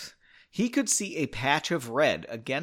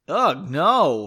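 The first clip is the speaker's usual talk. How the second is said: louder, emphatic protest; exclaiming; 7 dB louder than usual. A narrator's reading. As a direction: burst out with a disgusted refusal. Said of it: "Henry exclaimed".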